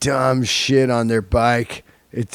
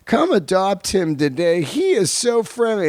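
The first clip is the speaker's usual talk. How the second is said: lightly voiced shelter guy, higher pitched; higher-pitched adoption plug, lightly put on; 7 semitones higher than usual. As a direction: imitate a shelter worker talking up a cat. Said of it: "animal shelter guy".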